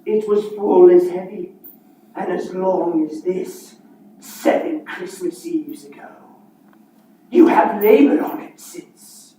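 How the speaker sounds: ghostly Marley voice; booming voice of a dead partner; playing both parts. Marley's ghost speaks of chains.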